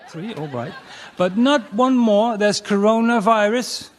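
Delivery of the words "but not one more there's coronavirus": police officer voice. Acted. Police voice setting the limit.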